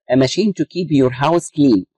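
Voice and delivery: slow dictation pace. Shown as a demonstration. Teacher reading a definition to students, slow dictation. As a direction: read out very slowly, word by word. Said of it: "teacher reads definition slowly".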